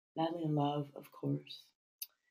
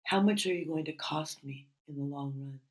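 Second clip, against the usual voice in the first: measured poetry recital with pauses between lines; deliberate, phrase-by-phrase verse reading; poem reading. Acted. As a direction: read your own poem aloud, lingering on phrases. Reads own poems aloud.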